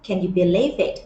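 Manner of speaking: very slow, each word stretched; slow model reading. Shown as a demonstration. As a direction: model the line for students to copy. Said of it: "teacher models the clip line".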